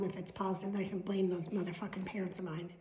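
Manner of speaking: unvoiced mischievous whisper; whispered aside. Real, not acted. Joking about blaming her parents, whispered. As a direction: whisper the naughty joke.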